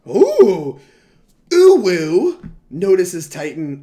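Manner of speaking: cutesy uwu anime voice, slow; breathy cutesy giggly. Pretend. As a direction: squeal it out, drawn out and cute. Cutesy uwu reaction to Titan.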